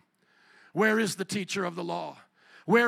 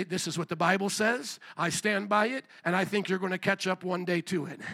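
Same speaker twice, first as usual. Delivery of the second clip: calm conviction; 2 semitones lower than usual. Acted. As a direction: stand your ground without raising your voice. His own firm answer in class.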